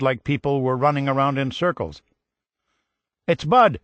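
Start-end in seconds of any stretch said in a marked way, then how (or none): 3.3-3.8 high, loud happy yell; excited yell. A narrator's reading. Relative yelling the news in the background. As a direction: shout the news across the room. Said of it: "he heard someone yell again".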